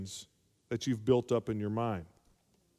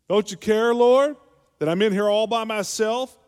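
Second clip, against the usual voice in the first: much higher, loud accusing cry; shouted indignant reproach; accusation; 10 semitones higher, 11 dB louder than usual. Retold or imitated. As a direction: hurl it at the Lord, blaming. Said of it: "it's really an accusation".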